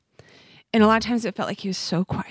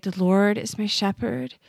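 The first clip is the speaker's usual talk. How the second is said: breath prayer on the inhale. Shown as a demonstration. Mother shows the host her breath prayer, prayed on the inhale. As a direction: pray it as you breathe in. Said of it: "took a deep breath in and I prayed".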